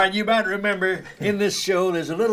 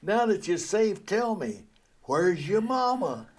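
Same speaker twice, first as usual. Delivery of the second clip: gentle bulldog; 3 dB quieter, slower than usual. Acted. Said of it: "and he says".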